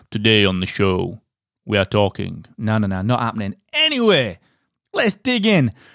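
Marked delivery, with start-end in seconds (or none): 0.1-2.4 voice dropped way down. Host opening the show, trying it in the Darth Vader voice. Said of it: "in a the Darth Vader voice".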